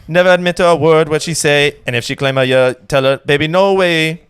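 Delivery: rapping a singer's verse loud, without music; karaoke of a singer. Pretend. Guest performs a singer's verse a cappella for the host, loud chant. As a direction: belt the verse like karaoke night, a touch of the original singer. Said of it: "This is how I sound when I do karaoke".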